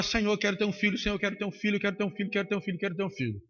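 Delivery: soft, pleading, repeating the plea; woman begging God softly for a child; quiet repeated prayer. Retold or imitated.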